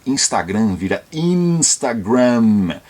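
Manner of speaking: Instagram then Instagram with a clear final m, slow; Brazilian versus English Instagram. Shown as a demonstration. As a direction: contrast the two Instagrams slowly.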